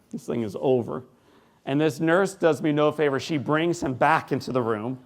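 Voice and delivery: normal talking voice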